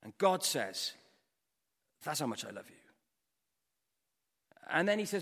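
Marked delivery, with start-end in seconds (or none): 2.0-2.8 low, soft and tender voice of God; tender declaration. Acted. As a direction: declare love gently, quietly. God tenderly declares his love.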